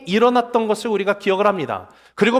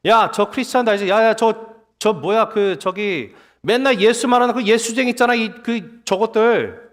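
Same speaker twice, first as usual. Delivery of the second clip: disdainful gossip groping for the name; mocking, contemptuous. Townsperson pointing out those Jesus-freaks to a friend, mildly mocking. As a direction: sneer at them like a scornful bystander. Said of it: "이 뉘앙스를 갖고 있어요".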